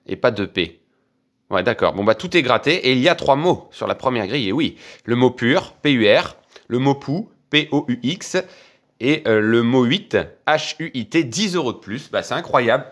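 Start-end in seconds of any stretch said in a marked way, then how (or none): 1.9-12.9 higher, upbeat recap of the wins; cheerful, proud summary; excited. Real, not acted. Sums up the winnings. (enthousiaste, plus aigu)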